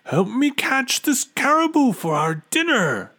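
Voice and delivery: high, loud hungry call; eager mother bear call. A narrator's reading. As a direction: urge the cubs on, loudly. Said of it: "the bear mother shouted".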